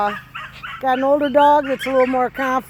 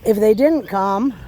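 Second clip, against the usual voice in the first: normal talking voice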